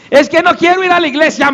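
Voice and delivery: quick, high-pitched excuse; lightly acted whine of protest; mock reluctance. Believer who must fight himself, mock reluctant excuse.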